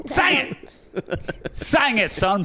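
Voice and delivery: high excited hype-man shout; hyped cheering. Acted. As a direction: egg them on to sing. Hyping someone to sing.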